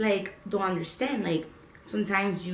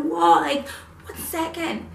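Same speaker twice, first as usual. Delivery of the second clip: higher, louder startled whoa as changes pile up; overwhelmed whoa; 9 semitones higher, 4 dB louder than usual. Retold or imitated. Telling viewers how sudden changes feel, startled whoa. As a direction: pull up short, thrown by it all.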